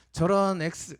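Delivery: mock outburst at the one who wronged you; mock angry yell. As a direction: mimic someone cursing a rival. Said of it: "소리치죠".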